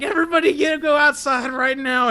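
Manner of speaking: high, strained mock call to a group; retold order. Recruit sends his class outside again, high mock urgency. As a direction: call it out high without real volume.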